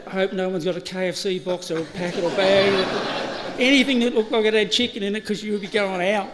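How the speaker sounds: laughing through the worried thought; half-laughing inner worry. Retold or imitated.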